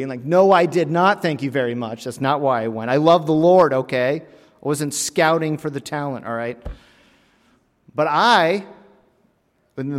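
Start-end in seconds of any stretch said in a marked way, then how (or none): 0.2-6.6 louder, mock-offended retort; protesting too much; indignant protest. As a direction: defend yourself with playful indignation. Acting his retort to teasing.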